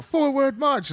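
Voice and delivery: high-pitched parade command, falling away; officers' marching order. Acted. Officers taking turns ordering the troops, high called-out command. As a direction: call the order down the ranks. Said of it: "they all".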